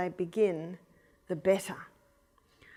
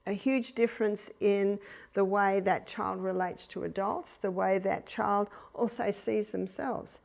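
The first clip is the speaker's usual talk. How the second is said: ordinary delivery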